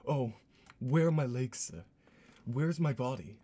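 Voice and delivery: a lightly voiced panicked head; hammed-up pleading; crying severed head. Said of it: "open his eyes and cry".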